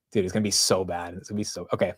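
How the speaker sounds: ordinary talk, nothing marked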